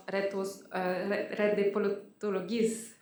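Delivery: halting Spanish accent on "Red de Politologues". Real, not acted. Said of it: "Sorry for my bad, uh, Spanish accent".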